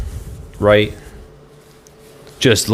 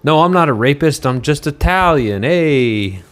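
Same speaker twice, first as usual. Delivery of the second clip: mocking the governor; 4 semitones higher than usual. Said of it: "he says".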